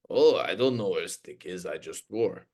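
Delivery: a hint of a clueless athlete, joking; silly Gino voice. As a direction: play him mildly dopey and lost. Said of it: "we would just use that voice".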